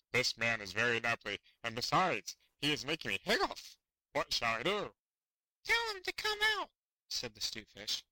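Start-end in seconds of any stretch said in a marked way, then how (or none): 0.1-4.9 louder, troubled whale voice; hiccoughing whale. Acted. Whale complains. 5.6-6.7 very high, small squeaky fish voice; tiny fish voice. Acted. Fish voice again.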